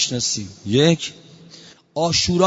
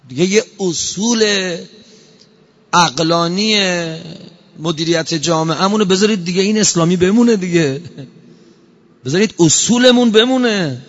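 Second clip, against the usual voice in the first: rising plea; 2 semitones higher, 5 dB louder than usual. Real, not acted. Preacher pleading to the congregation, building to a louder cry. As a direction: press harder on each plea, louder each time.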